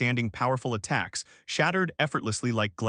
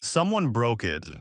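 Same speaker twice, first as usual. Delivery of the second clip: slow, sultry, a little roughened; low seductive voice. A narrator's reading. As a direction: purr it out, hungry and tired. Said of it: "a low, seductive voice slipped from her lips, roughened slightly by exhaustion".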